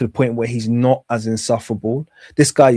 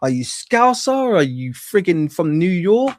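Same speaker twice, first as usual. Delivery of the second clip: exasperated mockery; 8 semitones higher than usual. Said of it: "And it's like".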